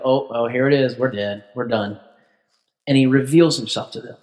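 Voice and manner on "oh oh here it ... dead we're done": hushed dread. Retold or imitated. Brothers expect Joseph to kill them, low hushed dread. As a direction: let the doom drop out of your voice.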